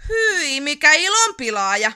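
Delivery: indignant snap. A narrator's reading. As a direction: scold the spoilsport. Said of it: "kivahti Yrmy". (kivahtaa närkästyneenä)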